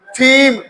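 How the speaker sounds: थीम begun with an aspirated dental "th"; TH as "thay". Shown as a demonstration. Teacher showing the other TH sound, थीम with th and long ee. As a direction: start थीम with a breath-released th, then long ee. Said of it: "थे की आवाज दे रहा है".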